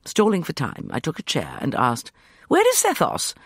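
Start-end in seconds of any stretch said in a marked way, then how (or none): 2.5-3.3 high asking voice; questioning. A narrator's reading. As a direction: ask it sharply, high. Narrator voicing herself asking.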